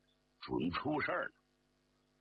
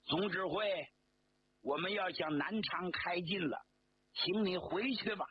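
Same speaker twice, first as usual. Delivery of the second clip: raised, higher call to the general; 5 semitones higher than usual. Acted. Regiment commander calling to the general before departing, raised voice. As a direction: shout a final farewell as the train leaves. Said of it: "他便对张发奎喊".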